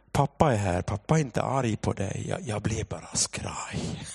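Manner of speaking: low, soft reassuring dad; careful reassurance. Retold or imitated. Father carefully approaches daughter on the roof, soft reassurance. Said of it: "går jag ner till henne försiktigt".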